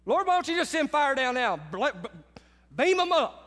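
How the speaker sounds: retold indignant appeal; mock angry prayer. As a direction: replay your fed-up prayer, hammed up for laughs. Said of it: "I was so mad I couldn't see straight".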